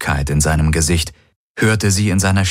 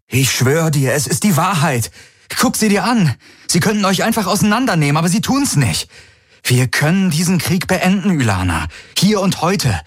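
hohe, drängende Stimme eines verzweifelten Mannes; Garlin, flehend; 9 semitones higher than usual. A narrator's reading. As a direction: fleh sie an, hastig und atemlos. (Garlin fleht Ylana an, den Krieg zu beenden)

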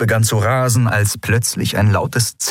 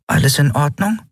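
high little voice, worried; concerned Nelen; 8 semitones higher than usual. A narrator's reading. Small companion checks on Kai, worried and high. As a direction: ask gently if he is alright. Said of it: "sah ihn besorgt an".

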